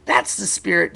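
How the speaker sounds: storyteller's hearty crowd cheer. A narrator's reading. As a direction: cheer the racer on. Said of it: "cheered the crowd".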